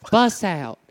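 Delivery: a man lightly playing a sweet woman, calling her darling; a man putting on a woman's voice, teasing; girl voice. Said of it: "Who's doing the girl voice?".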